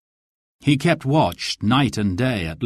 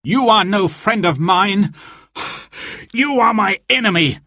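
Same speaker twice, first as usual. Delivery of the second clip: high-pitched, strained cry of defiance; breathless hero's outburst; gasped defiance; 8 semitones higher than usual. A narrator's reading. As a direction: gasp it out high at a foe. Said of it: "gasped Robin".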